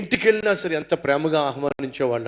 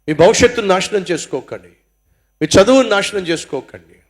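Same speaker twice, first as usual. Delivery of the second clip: urgent preaching cry; 5 dB louder than usual. Real, not acted. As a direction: call out to them, building louder each line. Preacher pleading with youth.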